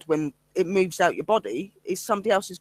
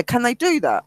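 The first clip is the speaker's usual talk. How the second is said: higher-pitched incredulous question; imitated disbelief; 6 semitones higher than usual. Investigator voices the team questioning the spirits' tricks, incredulous. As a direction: mimic a baffled teammate.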